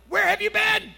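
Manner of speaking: husband imitating his wife scolding him from the delivery bed; wife's angry retort. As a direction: play the wife in labor, furious he was gone. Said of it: "she's looking at me like".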